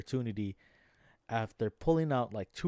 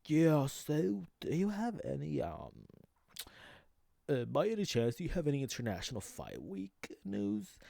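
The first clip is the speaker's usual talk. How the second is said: mock reporter; 5 semitones higher than usual. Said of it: "reporter was like".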